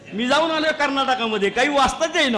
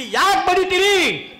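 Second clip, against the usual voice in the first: protesting wife; 5 semitones higher, much slower than usual. Retold or imitated. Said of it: "ती म्हणली".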